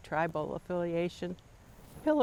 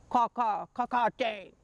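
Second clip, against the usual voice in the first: higher, louder crow caws; 5 semitones higher, 4 dB louder than usual. Retold or imitated. Crow woman correcting the girl, crow caw. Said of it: "said the woman".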